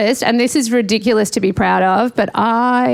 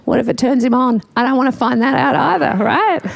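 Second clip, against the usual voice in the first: high, rising panicked rant; mock-horrified rant, pitch climbing; 6 semitones higher than usual. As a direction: spiral into horrified worry, climbing higher. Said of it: "I'm like".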